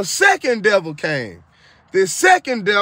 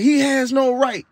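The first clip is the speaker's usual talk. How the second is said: demon protesting; 4 semitones higher than usual. Retold or imitated. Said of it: "that demon kept saying".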